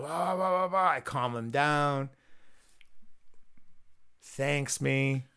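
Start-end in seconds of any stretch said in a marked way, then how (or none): 0.0-0.9 high nonsense babble; imitated ranting. Storyteller imitating friend still ranting in the car, babbling. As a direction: mimic leftover ranting in blahs. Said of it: "He's still kind of".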